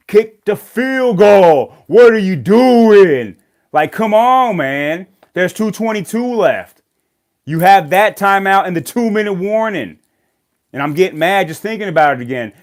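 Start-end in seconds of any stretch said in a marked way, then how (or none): 0.1-10.0 high, loud, slow yell at the coach; screaming at the TV. Retold or imitated. Fan yelling at the Broncos coach on TV, a loud, high furious shout. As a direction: bellow the call at the screen like the coach can hear. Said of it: "I'm screaming at the T V".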